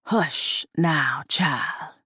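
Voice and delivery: low, soft gravelly command; gravelly doll voice. Acted. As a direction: hush her, low and soft. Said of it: "The gravelly voice".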